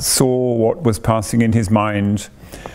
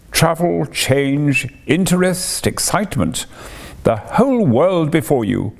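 Toad rattling off delights, higher and eager; excited boastful Toad; 4 semitones higher than usual. Acted. Toad showing off his caravan to Rat and Mole, eager and boastful. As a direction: sell the open road with swagger.

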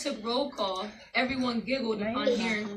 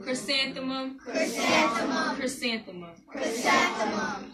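laughing drawn-out name; 2 semitones higher, slower than usual. Shown as a demonstration. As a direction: stretch the name out slowly while laughing.

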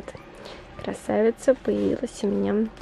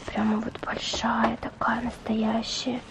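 whispering; 5 dB quieter than usual. Real, not acted. Whispering about the doll.

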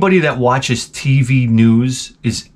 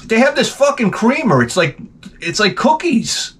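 much higher giddy gush; giddy excitement; 9 semitones higher than usual. Retold or imitated. Narrator raving about the office creamer, high giddy gush. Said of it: "Now I'm like".

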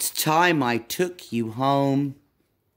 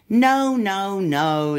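upset little monkey protest; 2 semitones higher, slower than usual. Acted. Monkey protests wrong animal.

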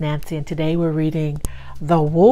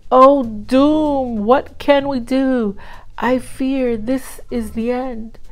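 dramatic wail; 6 semitones higher than usual. A narrator's reading. Duck laments doom.

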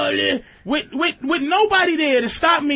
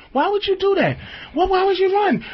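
put-on higher, upset girlfriend asking why he ran; mock his girl's frantic questions, pitched up; girlfriend's panicky quote; 5 semitones higher than usual. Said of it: "And goes".

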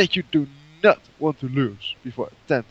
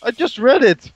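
indignant shout; 8 semitones higher, 6 dB louder than usual. Real, not acted. Protests he already read rules.

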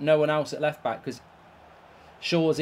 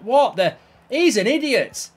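angry outburst; 7 semitones higher, 6 dB louder than usual. Real, not acted. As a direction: spit it out in rage at the player. Gamer raging at his player.

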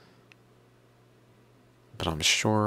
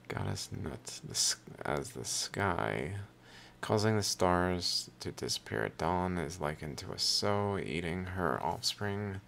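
even, measured reading of a hymn; reading aloud; 3 semitones higher than usual. Acted. Reader reciting the hymn of Unis eating gods, reading aloud. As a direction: recite it line by line from the page.

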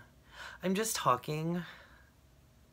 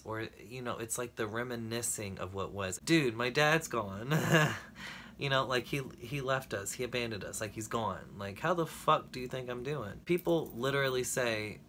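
ordinary delivery

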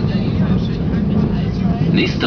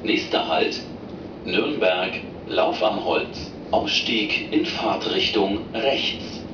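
over the intercom. Real, not acted. Recorded train stop announcements.

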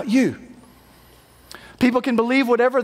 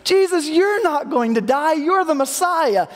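protesting Peter; 6 semitones higher, slower than usual. Retold or imitated. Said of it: "Peter stands up and he's like".

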